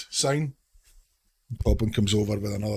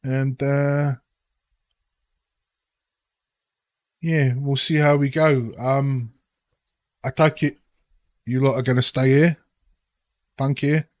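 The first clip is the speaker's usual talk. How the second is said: put-on Cockney accent; 2 semitones higher than usual. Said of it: "doing my dreadful Cockney accent".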